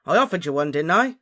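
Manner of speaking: loud, indignant retort; shouting. A narrator's reading. Ron defends himself over chocolates, shouting. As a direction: raise your voice in self-defence. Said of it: "shouted Ron".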